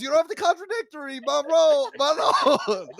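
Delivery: high, loud mock Jersey; Italian American accent. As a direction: defend him like a wiseguy. Mock mob defending husband.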